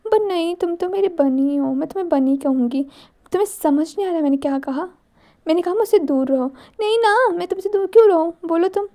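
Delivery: put-on a naive girl teasing her bunny; childlike teasing girl.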